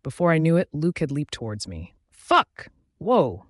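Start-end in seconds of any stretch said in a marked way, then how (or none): 2.1-3.5 loud startled cry; startled shout. A narrator's reading. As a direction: yelp it in sudden alarm. Narrator shouts as Luke leaps.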